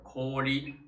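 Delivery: コーリ with the o held long. Shown as a demonstration. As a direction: stretch the コー in コーリ before the short リ. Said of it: "它的长音是o". (コーリ的o读长音)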